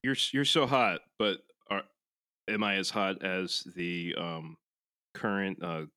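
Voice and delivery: mock seductive low murmur. Mock nerdy flirting.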